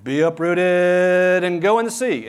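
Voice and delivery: loud, high, slow command to the tree; a proclaimed mock command. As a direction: order the tree away with full authority. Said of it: "and said".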